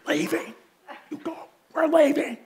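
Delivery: hushed, seething mock order; theatrical bad attitude. Fed-up dad telling family to leave, mock hushed anger. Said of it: "in theatrical ways what the attitude was like".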